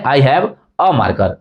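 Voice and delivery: slow, "a" said as a short weak "uh"; weak form a. Shown as a demonstration. Teacher slowly shows students the conversational weak "a", a as uh. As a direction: say "a" reduced to a quick "uh", unstressed, slowly. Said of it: "हमने अ बोल दिया".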